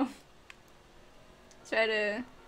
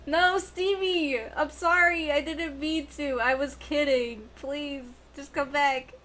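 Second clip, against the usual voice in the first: mock pleading; slower than usual. Begging betrayed player to return.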